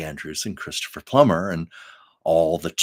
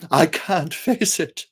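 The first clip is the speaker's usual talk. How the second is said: Maria pleading; 5 semitones higher, 5 dB louder than usual. Retold or imitated. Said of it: "and she goes".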